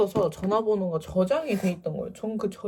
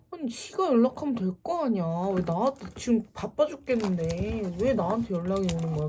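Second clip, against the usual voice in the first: irritated grumbling. Retold or imitated. Busy student resenting the ex's call, exasperated grumble. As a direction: grumble it in annoyance. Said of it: "너무 열이 받아서".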